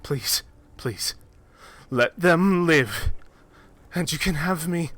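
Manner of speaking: starts hushed, then high and loud begging; desperate bargaining. Acted. Abadara offers herself to save the party, hushed then high desperate begging. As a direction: offer everything, rising from a hush to frantic pleas.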